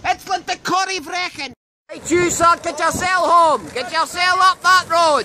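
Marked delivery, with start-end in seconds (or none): 1.9-5.2 loud, firm order home; bossy send-off. Acted. Reporter sending the stranded canoeist up the road, bossy send-off. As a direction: order them off loudly, like someone in charge.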